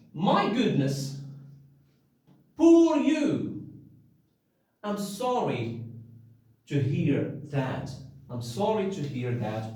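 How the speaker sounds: modelled sorrowful sympathy; sympathetic. Shown as a demonstration. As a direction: comfort someone hearing bad news. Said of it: "So what can you say?".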